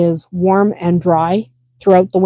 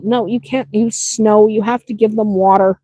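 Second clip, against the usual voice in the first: firm instruction; 2 semitones higher than usual. Retold or imitated. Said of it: "I tell people".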